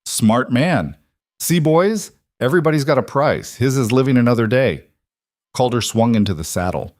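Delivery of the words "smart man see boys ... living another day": victorious outlaw. Acted. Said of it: "Rhett's laugh was victorious".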